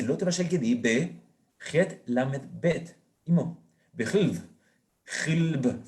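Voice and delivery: slow, letter-by-letter "het lamed bet"; spelling out letters. Shown as a demonstration. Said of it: "la Torá no dice eso". (deletreado lento: "het lamed bet")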